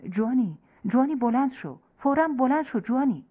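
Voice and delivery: panicked voice pleading him to get up now; terrified urgent call. Acted. Brother pounding on the door at dawn, terrified call.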